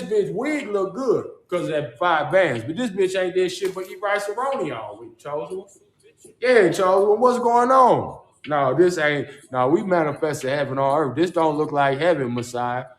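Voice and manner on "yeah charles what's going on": drawn-out greeting. Acted.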